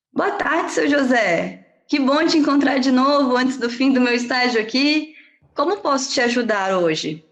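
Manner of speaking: mildly performed polite consultation opener; friendly greeting. Acted. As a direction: greet a familiar patient, lifted at the start. Voices her greeting to patient.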